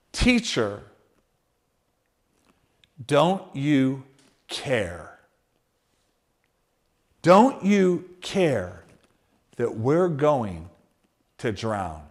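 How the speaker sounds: low, slow, hushed cry of the disciples; desperate plea. Acted. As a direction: plead quietly as if the boat sinks. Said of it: "this key verse in verse thirty-eight".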